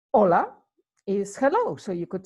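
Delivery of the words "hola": hola said as ola, silent H; Spanish hola. Shown as a demonstration. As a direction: say hola with no H sound, open o. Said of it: "notice that we don't really pronounce the H".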